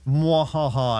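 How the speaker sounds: hammy evil mwahaha laugh; sneering panto villain. Pretend. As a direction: cackle like a cartoon villain. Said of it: "I was just instructed to do".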